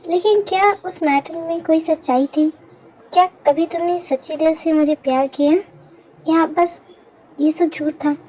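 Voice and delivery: low, subdued and hesitant; hurt questioning. Acted. Woman asking him whether his love was ever real, hurt. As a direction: ask it carefully, pausing before the painful part.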